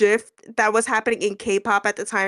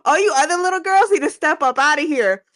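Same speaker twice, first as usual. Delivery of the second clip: hyped reaction; 4 semitones higher than usual. Retold or imitated. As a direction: hype it like a diva's grand entrance. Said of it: "I was like".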